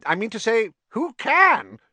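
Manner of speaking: high, loud, flustered; nervous alarm. A narrator's reading. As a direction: blurt it out in near panic. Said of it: "whose upper lip was sweating now".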